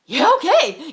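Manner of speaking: loud, high, excited retold yes; eager agreement. Lady offered healing in the store, eagerly agreeing. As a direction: burst out with an eager okay.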